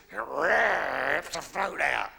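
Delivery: drawn-out, heavy delivery; slow punchline. Retold or imitated. Punchline of dog story.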